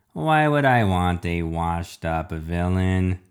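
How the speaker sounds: slow, menacing villain questioning; refrigerator villain. Acted. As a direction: draw out each question like a robot villain. Villain answers the child.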